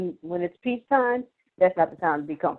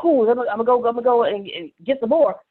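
upbeat self-talk; 3 semitones higher, 4 dB louder than usual. Pretend. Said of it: "it's not saying".

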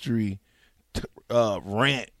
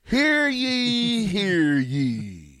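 town crier; 7 semitones higher, much slower than usual. Pretend.

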